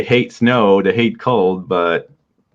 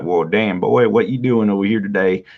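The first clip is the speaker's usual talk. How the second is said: put-on Southern accent. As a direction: play a Texan drawling a greeting, lightly. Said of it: "more of a Southern accent".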